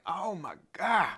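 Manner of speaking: slow, drawn-out Southern drawl; hammed-up Southern accent with long pauses; stereotypical Southern accent. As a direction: put on a slow Southern small-town gossip voice. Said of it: "doing that stereotypical Southern voice".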